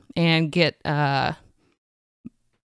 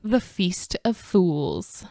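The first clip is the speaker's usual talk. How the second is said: dramatic title read; 4 dB quieter, much slower than usual. Acted. Announcing tidbit title.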